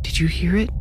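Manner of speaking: put-on high, soft child voice; a small scared girl asking; little girl voice. A narrator's reading. Little sister character.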